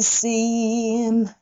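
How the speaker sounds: シーン with the vowel stretched long; held seem. Shown as a demonstration. Teacher showing students how to hold seem. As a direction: hold シーン before closing the lips. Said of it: "歌が終わっちゃうので".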